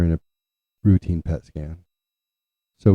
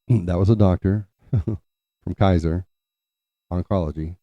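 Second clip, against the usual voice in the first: deliberate; 3 dB louder than usual. Retold or imitated. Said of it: "My dad was so deliberate".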